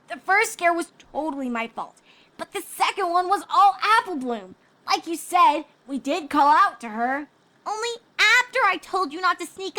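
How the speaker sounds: put-on high, light young pony girl voice; a playful filly teasing her friend. A narrator's reading. Scootaloo teasing Sweetie Belle, high filly voice.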